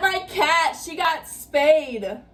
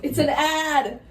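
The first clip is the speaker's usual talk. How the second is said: deafened loud; 3 semitones higher than usual. Real, not acted. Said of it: "I can't hear a thing".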